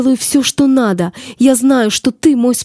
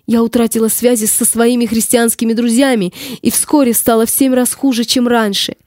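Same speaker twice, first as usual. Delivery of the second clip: tragic heroine sorrow. Acted. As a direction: plead your lost cause, raised.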